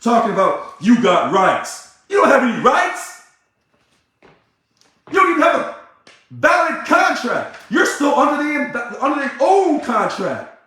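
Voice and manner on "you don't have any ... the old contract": angry shout. Real, not acted. Ranting at members.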